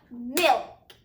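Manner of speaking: milk clapped as one beat. Shown as a demonstration. Teacher claps milk with the class, one clean beat. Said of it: "Let's clap it out and see".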